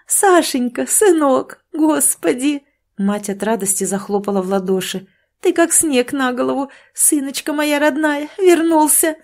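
a mother seeing her son back alive; overjoyed mother. A narrator's reading. Mother greets returning son. (мать ликует, голос высоко и громко)

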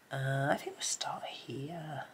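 quick soft whisper. Real, not acted. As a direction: whisper it under your breath. Whispered while colouring.

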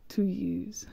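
barely voiced whisper to herself. Real, not acted. Gamer whispering a correction to herself, whispered. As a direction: breathe it as a private correction. Muttered correction of own Spanish.

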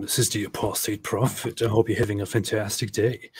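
lightly put-on host greeting; a hint of a put-on announcer; fake voice. Host greets listeners in a lightly faked voice. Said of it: "what's up with that fake voice?".

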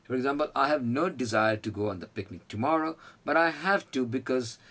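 slow, deliberate model sentence; slow example sentence. Shown as a demonstration. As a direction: spell it out word by word for learners. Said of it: "example sentence read slowly".

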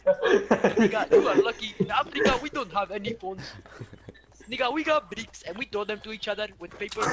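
playful put-on African accent; hamming up an African accent. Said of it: "Go back to your African voice".

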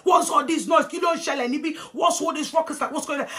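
high-pitched alarmed scolding; fussing aunties. Retold or imitated. Aunties rushing out at the noise, high-pitched scolding. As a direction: imitate aunties rushing in to hush a row. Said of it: "That's how all the aunties have rushed out".

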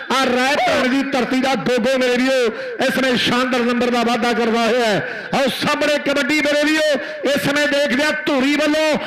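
rapid village kabaddi play-by-play; frantic rural sports commentary. Real, not acted. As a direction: call the raid live for the crowd.

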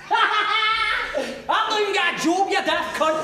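slow, high laughing words; laughing comeback. Acted. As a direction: crack up while answering the threat. Laughs at the empty threat.

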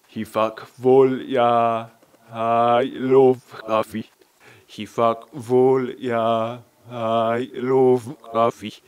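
slow, attempted Manchester accent. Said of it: "I tried my best to do my Manchester accent".

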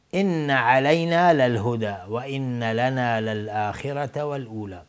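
slow, measured verse chanting; Quran recitation. Shown as a demonstration. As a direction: recite with long, held vowels.

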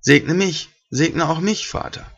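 a touch of tearful begging; near tears. Acted. Esau begging his father for a blessing, mildly tearful. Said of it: "Und Esau fing an, laut zu weinen".

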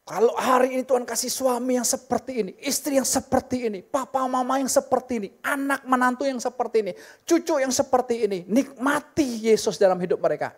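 a rising string of parallel lines; preaching. Acted. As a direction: build the list like a preacher, leaning on each family member. Preaching with building list.

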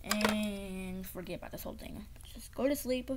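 whispering himself to sleep; whisper to self. Acted. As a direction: lull yourself to sleep in a whisper.

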